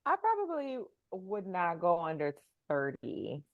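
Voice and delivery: muffled, hand over the mic. Real, not acted. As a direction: speak softly from behind a hand. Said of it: "Why do you sound muffled?".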